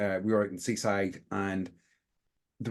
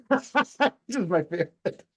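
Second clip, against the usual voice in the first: giggling through the words; laughing at own joke; 12 semitones higher than usual. Real, not acted. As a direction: chuckle at your own pun. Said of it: "laughing at my own joke there".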